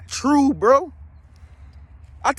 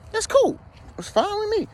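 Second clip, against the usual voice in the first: sarcastic faux-breezy acceptance, pitched way up; mock approval; 12 semitones higher than usual. Man at the courthouse mock-approving same-sex couples, high sarcastic voice.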